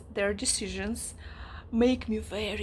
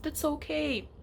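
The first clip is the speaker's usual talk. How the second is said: mock dismissive parents; 4 semitones higher, 3 dB quieter, faster than usual. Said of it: "her parents who are like".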